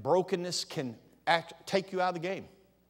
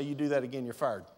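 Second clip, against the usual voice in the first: calm firm warning; 4 semitones lower than usual. Shown as a demonstration. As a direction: state it plainly without raising the voice. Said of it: "Just simply say".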